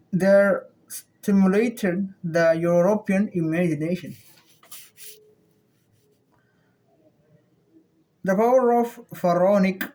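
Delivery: reading with a pen between the teeth. Shown as a demonstration. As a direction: speak around a pen held in the teeth. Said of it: "I'll be using this pen between my teeth".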